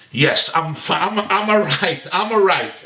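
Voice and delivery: acted irritated denial that anything is wrong; simmering ire. Husband answering his wife's concern, simmering ire. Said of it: "she sees he's simmering with ire".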